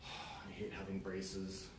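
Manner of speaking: very slow, soft sulky whine; whiny kid. Acted. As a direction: drag every word like a glum teen. Acted child whining about braces.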